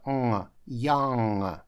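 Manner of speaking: put-on "Young" ending on a nasal ng, no hard g; silent final g. Shown as a demonstration. Teacher showing there is no G at the end, "Young" with silent g. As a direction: let "Young" close in the nose without a g. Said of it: "Г в конце буквы нет".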